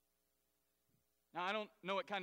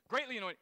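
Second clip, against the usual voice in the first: "Greatly" punched louder and set apart; stress on Greatly; 3 semitones higher, 4 dB louder, faster than usual. Shown as a demonstration. Preacher stressing the key word to the church, "Greatly" punched. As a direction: lean on "Greatly". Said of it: "It doesn't just say annoyed".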